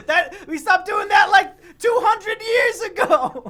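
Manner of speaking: loud, high, slow mock-indignant yell; laughing shout. Real, not acted. Teasing Biggs about old racism, shouting and laughing. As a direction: shout it through laughter in fake outrage.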